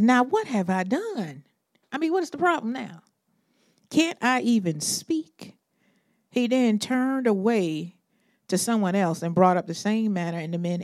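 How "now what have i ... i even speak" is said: exasperated. Retold or imitated. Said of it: "he says".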